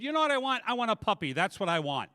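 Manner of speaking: high, loud acted snap; mock blow-up under pestering; exasperated outburst. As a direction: act out finally cracking, easing down at the end. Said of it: "I finally broke down".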